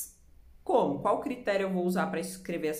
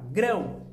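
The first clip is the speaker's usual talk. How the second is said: "Grão" as one firm, louder beat; one single sound; 2 semitones higher, 5 dB louder than usual. Shown as a demonstration. Teacher demonstrates a monosyllable, "Grão" in one loud beat. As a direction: punch out "Grão" in one syllable. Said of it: "Quantos sons a gente emite pra falar essa palavra?".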